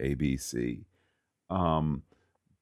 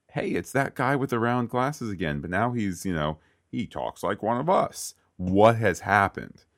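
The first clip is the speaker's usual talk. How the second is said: higher-pitched mock bewilderment; puzzled viewer; 4 semitones higher than usual. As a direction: act out a viewer doing a double take. Voicing puzzled viewer recognising the character.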